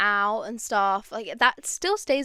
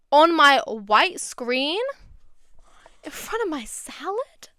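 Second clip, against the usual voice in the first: mock offended; 5 semitones higher, 4 dB louder, slower than usual. Mock outrage at an advert.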